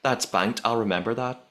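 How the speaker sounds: lightly imitated Northern Irish accent; a hint of put-on Northern Irish. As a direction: quote her with a Northern Irish lilt. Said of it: "this is my Northern Irish accent".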